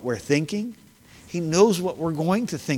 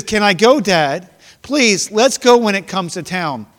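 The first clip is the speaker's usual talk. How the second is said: put-on higher, louder eager little boy begging; pleading boy; 5 semitones higher, 6 dB louder than usual. Boy begging his dad to go to the circus, eager and pleading. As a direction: beg your dad like a kid hiding a cigar.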